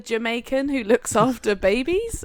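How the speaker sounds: questioning, lightly imitated Jamaican accent. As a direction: ask with a touch of Jamaican accent. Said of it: "a very thick Jamaican accent".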